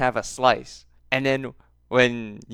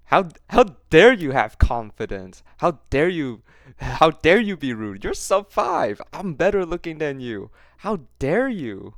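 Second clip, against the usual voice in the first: mock indignation; 5 semitones higher, 4 dB louder than usual. Mocking outraged guy.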